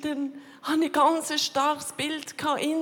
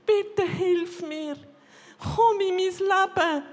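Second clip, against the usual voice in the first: slow, pleading prayer that climbs higher and louder into a shout; crying out to God from the floor; desperate cry to God; 4 semitones higher, 5 dB louder, slower than usual. Retold or imitated. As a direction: beg God for help as the voice rises. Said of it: "habe so zu Gott geschrauen".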